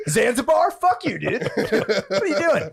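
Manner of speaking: laughing, slow mock African accent. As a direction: tell Zanzibar off in an accent. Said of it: "laughed at you guys doing Africa voice".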